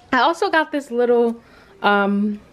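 a little winded while talking; breathless between words; out of breath. Real, not acted. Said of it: "I'm so out of breath".

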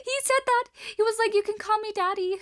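high-pitched, laughing quote of his line; laughing retelling. Retold or imitated. Streamer confirming a creepy message to a shocked friend, laughing retelling.

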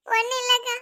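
high-pitched tearful denial. Acted. Crying wife to neighbour asking what happened, tearful. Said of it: "அழாத, சின்ன பிள்ளை மாதிரி அழுதுகிட்டு இருக்கு".

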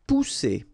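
"Pousser" said poo-SAY with a hard s; "Pousser" the French way; French word. Shown as a demonstration. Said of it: "the sound that you should produce is really strong".

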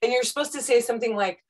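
normal talking voice

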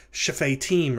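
shofetim with the first vowel reduced, "shuh-fay-TEEM"; expected wrong form. Shown as a demonstration. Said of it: "you might have expected this".

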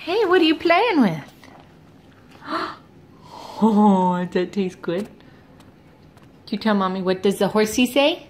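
put-on sing-song talk to a baby; reading to a toddler. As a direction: coax the toddler to answer. Playing with toddler.

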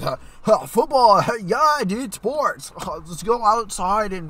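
grunting, dopey jock impression; dumb bro voice. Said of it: "two bros. You know, like".

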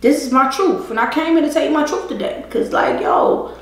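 ordinary talk, nothing marked

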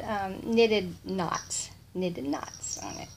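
normal talking voice

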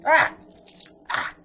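loud high panicked screams; screaming. Real, not acted. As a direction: scream in terror. Attacked by creature.

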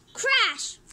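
punchy comic-book effect; sound-effect word. A narrator's reading. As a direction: burst out with the crash. Narrated crash effect.

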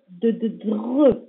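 slow, split into sounds: "de, de, dre"; sounding out dre. Shown as a demonstration. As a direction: build "dre" from "de" slowly.

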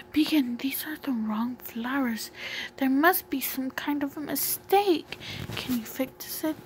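a lightly voiced upset character. Character telling Beacon the flowers are wrong, mildly upset.

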